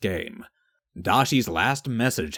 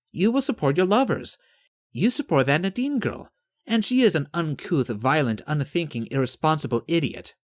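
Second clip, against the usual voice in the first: assured, persuasive Yvette; 5 semitones higher than usual. Acted. Yvette voiced in long speech.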